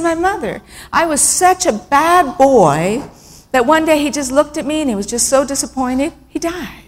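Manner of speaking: put-on small boy's confession. Voicing the six-year-old boy.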